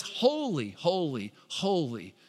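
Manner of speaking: reverent quiet proclamation. Acted. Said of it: "repeated over and over for emphasis".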